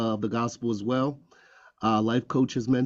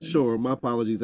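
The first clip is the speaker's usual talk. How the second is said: talking with ice cream in mouth; mouth full. Real, not acted. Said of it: "I actually got a mouthful of ice cream".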